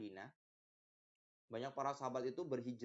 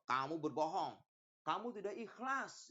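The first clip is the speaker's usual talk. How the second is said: stern accusing divine voice; a lightly voiced stern judge; voice of Allah judging; 4 semitones higher, 3 dB louder than usual. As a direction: pronounce judgment on the liar.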